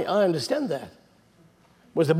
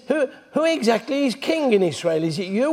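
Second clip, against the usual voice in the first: higher, scornful challenge to the king; scornful taunt; 4 semitones higher than usual. Retold or imitated. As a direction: goad him with contempt. Jezebel scornfully taunting Ahab.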